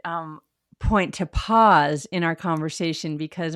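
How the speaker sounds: ordinary talk, nothing marked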